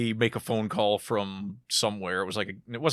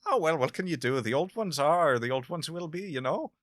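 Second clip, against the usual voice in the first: higher, light put-on Irish accent, shrugging and ominous; mock ominous Irish; 5 semitones higher than usual. Joking with a friend about the old ones, light mock Irish accent. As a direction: toss it off like a doom-laden Irish uncle, half-hearted. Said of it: "ominous in a, in a thick Irish accent".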